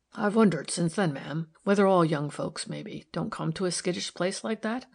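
lightly voiced rustic man, musing; thoughtful workman. Workman wondering aloud to a lady about young folks, thoughtful. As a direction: muse aloud as a homely workman. Narrator voices Batson in dialogue.

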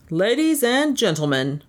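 track official calling to the crowd; lightly voiced official hailing the stands; crying out announcement. Official announces to the racetrack crowd, calling out. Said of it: "cried the chief official".

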